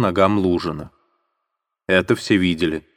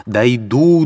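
raised, rising first cry; determined vow; 3 semitones higher, 4 dB louder than usual. Acted. Katerina vowing to reach the tsar, first rising cry.

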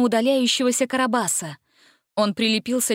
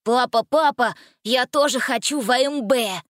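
put-on eager child's voice, a bit higher; excited little boy; 3 semitones higher than usual. A narrator's reading. Little boy eagerly begging his father. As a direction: beg with delight like a small kid. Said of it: "с восторгом попросил малыш".

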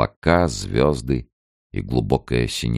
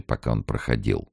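ordinary delivery

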